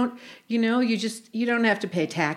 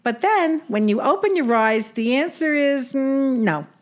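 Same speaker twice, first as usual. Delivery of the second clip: put-on old Brooklyn aunt with Yiddish lilt; yiddish accent; 2 semitones higher than usual. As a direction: play a wisecracking Jewish aunt. Sadie role in comedy skit.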